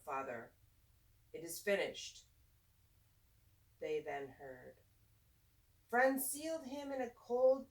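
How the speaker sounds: put-on lilting, expressive read-aloud for kids; reading to children. A narrator's reading. Teacher reading a rhyming picture book to children, lilting and expressive. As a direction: read the rhymes like story time in class.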